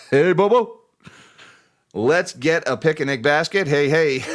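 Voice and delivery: a hint of a cheery cartoon bear; Yogi Bear voice. Reading a viewer's chat as Yogi Bear, mild cartoon voice. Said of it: "my, uh, Yogi Bear voice".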